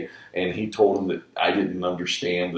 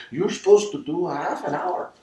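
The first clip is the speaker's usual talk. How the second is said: new dad's voice; 11 semitones higher, 4 dB louder than usual. Retold or imitated. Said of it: "he walks up and goes".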